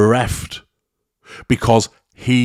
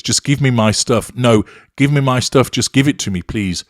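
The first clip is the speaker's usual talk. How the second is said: anxious; 4 semitones higher, 4 dB louder than usual. Acted. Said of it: "The victim sounds even more anxious".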